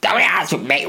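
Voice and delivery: a hint of a sulky robot, slow at first; a mild odd android voice; lightly voiced android. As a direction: grumble like a lazy android. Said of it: "why does he sound like this?".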